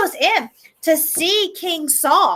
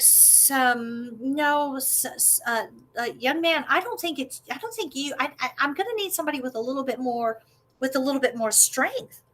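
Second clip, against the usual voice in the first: soft, stammering doubt; hesitant king; 7 dB quieter than usual. Acted. King Saul doubting the young boy, soft stammering. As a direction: hesitate gently to let him down. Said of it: "he's like".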